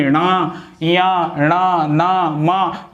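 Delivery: णा ना मा said through the nose; nasal consonant demo; nasal letters demo. Shown as a demonstration. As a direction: let णा ना मा ring in the nose. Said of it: "ये नाक से बोले जाते हैं".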